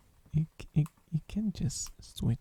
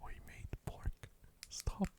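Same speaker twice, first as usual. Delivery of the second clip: Australian dog bark; 11 dB quieter, slower than usual. Pretend. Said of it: "Australian dogs bark".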